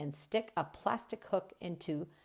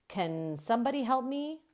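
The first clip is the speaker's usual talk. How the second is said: calling for help; 6 semitones higher, faster than usual. Acted. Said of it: "I call".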